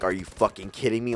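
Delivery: soft, low deadpan disdain; blank disdain. Retold or imitated. Girls after the failed joke, imitated blank disdain. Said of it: "the blank, like".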